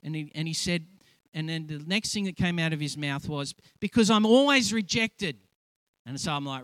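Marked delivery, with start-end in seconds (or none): 3.8-5.4 anguished cry. Retold or imitated. Friend blurts out his wound.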